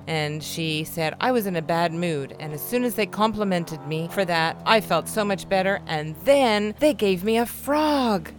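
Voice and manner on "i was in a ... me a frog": put-on mild excited teen. Teen's happy story voiced.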